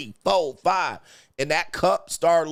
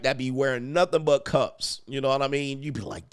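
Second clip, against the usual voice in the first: normal talking voice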